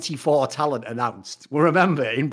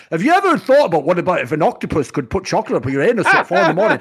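mock late-night tweet; 5 dB louder, faster than usual. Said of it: "tweets all flash up like".

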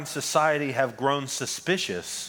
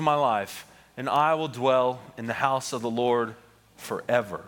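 scripture reading. Acted. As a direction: read the psalm with weight and reverence. Reads Psalm 23 aloud in sermon.

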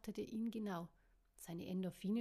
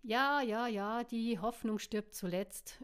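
pondering; 2 semitones higher, 8 dB louder, slower than usual. Acted. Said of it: "überlegte Caro".

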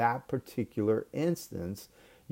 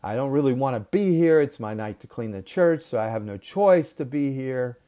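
retold berating; 3 semitones higher, 6 dB louder than usual. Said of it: "she starts yelling at me".

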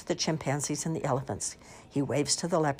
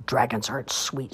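snorting; 3 semitones lower than usual. Acted. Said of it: "snorted Mister Dragon".

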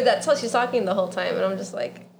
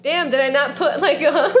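surprised; 6 semitones higher, 6 dB louder than usual. Retold or imitated. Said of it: "I'm like".

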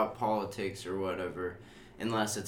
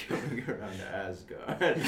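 Odin impression; 3 dB quieter than usual. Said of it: "Is that your Odin impression".

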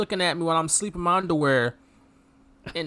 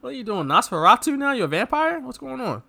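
higher, incredulous questions; mock bewildered; 5 semitones higher than usual. Reacting to villain's face, mock bewildered. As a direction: sound baffled. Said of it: "I'm like".

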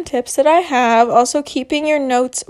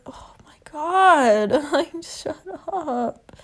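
annoyed whisper; 4 semitones higher, slower than usual. Retold or imitated.

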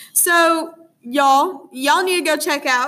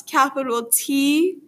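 letter by letter, slow and careful; spelling it out; slower than usual. Shown as a demonstration. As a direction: spell each letter with its case. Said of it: "that's The Lighthouse".

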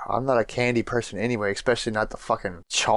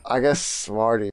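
slow, flat, reluctant pick; unenthused; slower than usual. Real, not acted. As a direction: say it like you couldn't care less. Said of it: "You're so unenthused about it".

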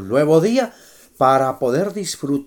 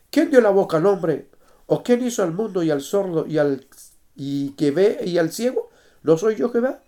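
forceful. Acted. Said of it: "Y Dios le responde fuertemente".

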